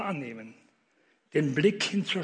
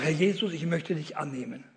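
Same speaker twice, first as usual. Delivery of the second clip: guided prayer. Shown as a demonstration.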